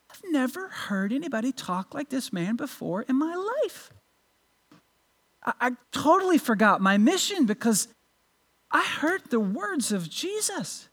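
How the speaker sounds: lightly acted hushed amazement; dumbfounded. Officers explaining themselves to the Pharisees, mildly dumbfounded. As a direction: answer softly, as if a little stunned. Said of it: "And they're dumbfounded".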